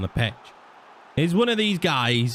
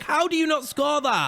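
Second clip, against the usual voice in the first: disbelief; 12 semitones higher than usual. Real, not acted. Chance missed.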